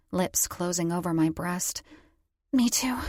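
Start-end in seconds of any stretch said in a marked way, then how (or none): 2.5-3.0 whispered, higher and airy; an intimate breathy whisper; breathed. A narrator's reading. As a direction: breathe the words out. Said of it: "I breathed".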